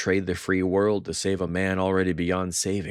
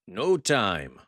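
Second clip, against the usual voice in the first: abruptly sharp; 5 semitones higher, 3 dB louder than usual. Acted. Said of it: "his tone abruptly sharp".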